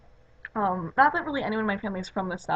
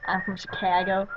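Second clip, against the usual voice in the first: exaggerated Chicago accent; mock a Chicago accent on the city's name. Shown as a demonstration. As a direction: put on a Chicago accent, stressed on "Chicago". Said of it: "does have kind of an accent".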